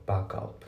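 "バックアップ" joined as English "ba-kup"; linked English "バックアップ"; linking. Shown as a demonstration. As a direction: carry the K straight into up in "バックアップ". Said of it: "リンキングが起きてますね".

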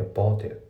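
"ボートイット" linked like English "bought it"; English-style joined "ボートイット", final T swallowed; linking. Shown as a demonstration. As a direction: run "ボートイット" into one word, "boughtit". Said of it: "そこがまずリンキングで".

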